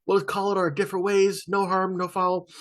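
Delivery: a hint of the easygoing dealmaker; lightly voiced placating lawyer. Acting Saul placating Walt.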